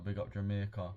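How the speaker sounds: put-on light Jamaican accent. Streamer shouting out a viewer from Jamaica, light Jamaican accent. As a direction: slip briefly into a Jamaican accent. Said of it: "Don't know why I did the accent".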